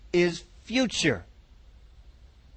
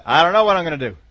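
mock hopeless whine; 5 dB louder, faster than usual. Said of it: "What are you gonna do about that?".

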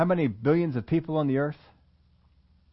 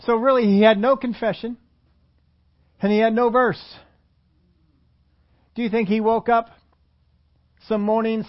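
emphatic preaching; 6 semitones higher, 4 dB louder than usual. Real, not acted.

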